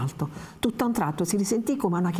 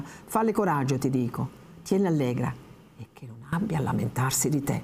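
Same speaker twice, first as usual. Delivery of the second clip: imperious tone. Acted. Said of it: "riprende il tono imperioso". (l'Innominato ordina alla vecchia, tono imperioso appena accennato)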